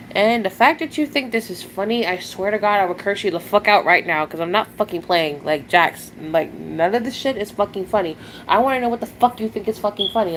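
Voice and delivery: heated, cursing tirade at a troll; real angry scolding of a chat troll; angry rant. Real, not acted. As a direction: tear into the troll who laughed.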